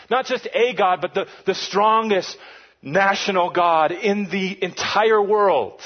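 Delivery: hammed-up boxing announcer; hype announcer. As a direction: pump up the villain like a fight promo. Hyping villain like sports announcer.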